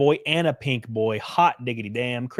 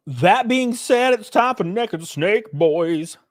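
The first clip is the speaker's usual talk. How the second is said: hype announcer; 8 semitones higher, 3 dB louder, slower than usual. Acted. Hyped segment announcement.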